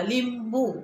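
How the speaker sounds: लिंबू said with a short li; लिंबू, brief first vowel; quick short vowel. Shown as a demonstration. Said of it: "आपण पटकन शब्द म्हटला".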